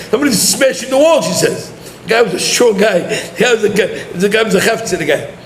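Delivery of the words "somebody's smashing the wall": alarmed wife. Retold or imitated. Wife woken by banging.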